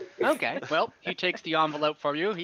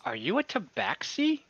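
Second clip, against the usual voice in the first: lightly voiced friendly merchant; merchant NPC; 3 semitones higher than usual.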